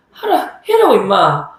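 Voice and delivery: mock-provoking dare; acted goading. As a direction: act out egging him on. Acted taunt in a standoff.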